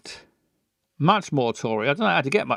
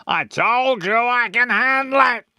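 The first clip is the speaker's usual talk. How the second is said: higher and louder, furious; angry daughter; 7 semitones higher, 4 dB louder than usual. Acted. Daughter angrily answering her posh father. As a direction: snap back at him. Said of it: "They're both getting angry now".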